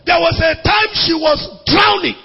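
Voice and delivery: voicing God. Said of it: "He said".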